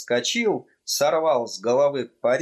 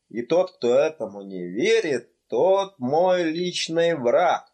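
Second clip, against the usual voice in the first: a hint of a heated old clerk; slightly raised, insistent clerk; understated tipsy official swearing loyalty; lightly voiced registrar; 2 semitones higher than usual.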